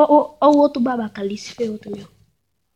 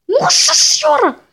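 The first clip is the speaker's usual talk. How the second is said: surprised; 13 semitones higher, 4 dB louder than usual. Real, not acted. Shocked at a game moment.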